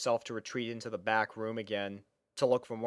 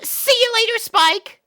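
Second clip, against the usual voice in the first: much higher, louder shout while running off; called out goodbye; 11 dB louder than usual. A narrator's reading. Sweetie Belle calling back to Spike as she darts out. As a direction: yell it over your shoulder.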